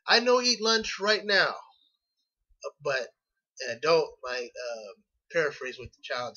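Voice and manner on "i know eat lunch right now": put-on child's words. Shown as a demonstration. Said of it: "a children can say".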